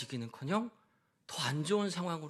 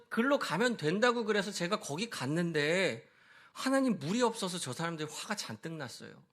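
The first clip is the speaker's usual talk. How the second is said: desperate prayer; 4 semitones higher than usual. Retold or imitated. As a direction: cry out in panic to God. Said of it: "부르짖으며 기도했습니다".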